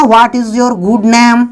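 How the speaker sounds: very slow, word by word; slow, clear dictation; slow model sentence. Shown as a demonstration. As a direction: spell it out slowly for learners. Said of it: "जो आप अक्सर इस्तेमाल करते हो ना".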